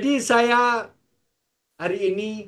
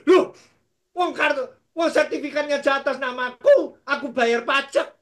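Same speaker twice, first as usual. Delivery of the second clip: higher, indignant objection; protesting; 4 semitones higher than usual. Retold or imitated. Pastor arguing with God over the deed, indignant. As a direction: argue back like a wronged owner.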